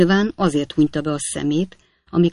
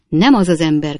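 crying out; 6 dB louder than usual. Acted. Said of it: "kiáltotta Snodgrass úr".

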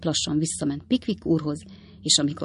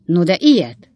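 louder, indignantly surprised outburst; astonished exclamation; 7 dB louder than usual. A narrator's reading. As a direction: exclaim in mild shock. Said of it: "kiáltott fel Pickwick úr". (meglepett felkiáltás)

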